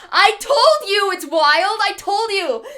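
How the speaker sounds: cracking up while insisting it's wild; real laughter, said slowly; laughing. Real, not acted. Laughs at the absurd story.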